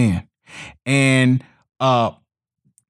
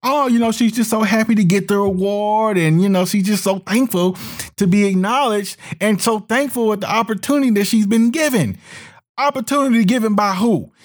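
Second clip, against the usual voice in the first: sarcastic; 5 semitones higher than usual. Acted. Sarcastic paraphrase of actress' gratitude.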